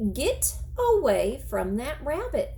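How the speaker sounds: put-on scolding old woman.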